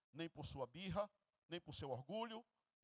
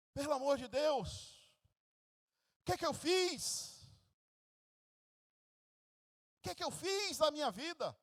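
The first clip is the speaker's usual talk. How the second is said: Esau's anguished shout, much higher and louder; crying out; 7 semitones higher, 7 dB louder than usual. Acted. Esau crying out after losing the blessing, a loud anguished shout. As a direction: cry out to heaven in despair.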